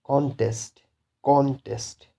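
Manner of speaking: CON-test, stressed on the first syllable of contest. Shown as a demonstration. Teacher gives an example of a noun, stress on CON in contest. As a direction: put the weight on CON in contest. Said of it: "stress will be on the first syllable".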